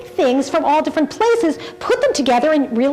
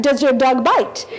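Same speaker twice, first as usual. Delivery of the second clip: lightly put-on French accent; slower than usual. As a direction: try the film line with a hint of French. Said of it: "can you do it in a French accent".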